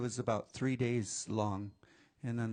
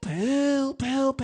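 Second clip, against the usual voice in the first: loud, very high sea-creature call; long wail ending in repeated cries; crying out for help; 13 semitones higher, 10 dB louder, slower than usual. Acted. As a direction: call out to the water at full voice. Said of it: "all three cried out".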